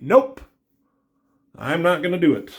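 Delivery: a sharp high Nope, then firm; emphatic refusal. Retold or imitated. Daredevil turning down Captain America, high loud refusal. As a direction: shut the offer down fast.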